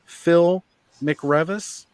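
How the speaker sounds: innocent-sounding prank caller with a light cartoon-kid voice; Bart Simpson prank call. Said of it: "I was doing the Bart Simpson gig".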